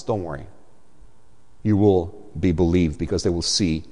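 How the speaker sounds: calm Moses down gently as God; reassuring God. Acted. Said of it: "And God says".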